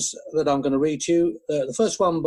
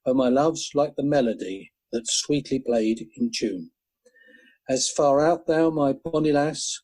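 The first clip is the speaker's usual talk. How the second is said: tender poem reading; 3 semitones lower than usual. Acted. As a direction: linger over each line like a love song. Reads Burns love poem.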